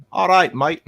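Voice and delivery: high, loud attempt at Aussie; bad Aussie accent. Shown as a demonstration. Showing he cannot do Australian, bad Aussie accent. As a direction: try a broad, not-quite-right Aussie accent. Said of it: "I can't do an Aussie accent".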